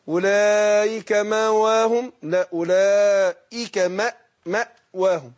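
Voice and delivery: مأواهم with a distinct glottal stop after ma; slow, clear hamza in مأواهم; hamza pronounced. Shown as a demonstration. Teacher to student demonstrating the hamza in مأواهم. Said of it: "شوف تحقيق الهمزة".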